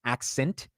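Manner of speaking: "Accent" pronounced carefully as "ak-sent". Shown as a demonstration. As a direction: say "Accent" with a clean s in the middle. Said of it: "shint versus sint".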